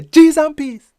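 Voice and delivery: high shocked cry of "Cheese and peas"; shocked exclaim. Shown as a demonstration. Teacher showing what you say at a shock, shocked. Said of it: "That's how that sound".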